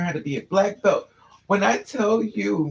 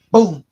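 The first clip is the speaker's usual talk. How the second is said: loud boom sound effect; 11 dB louder than usual. Retold or imitated. Head hits car door.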